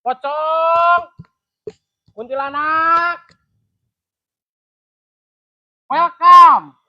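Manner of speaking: eerie ghost host welcoming you; drawn out, haunting welcome; spooky ghost voice. Pretend.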